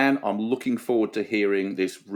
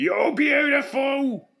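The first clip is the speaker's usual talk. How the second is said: put-on yelling. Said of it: "Some bloke yelling at a girl".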